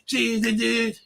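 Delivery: high, loud goofy shouting dude. Retold or imitated. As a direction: belt it out like a dopey teen. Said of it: "step back into this role and be like".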